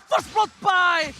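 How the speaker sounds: fighting game announcer. Real, not acted. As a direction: build to the skill name. Caster hype on comeback.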